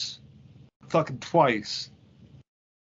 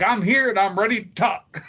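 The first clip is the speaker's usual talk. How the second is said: mock Australian accent; 4 semitones higher, 4 dB louder than usual. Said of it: "in my fucked up accent".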